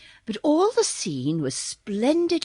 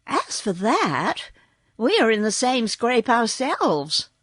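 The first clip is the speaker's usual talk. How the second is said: cheerful. Acted. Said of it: "answered Dorothy cheerfully".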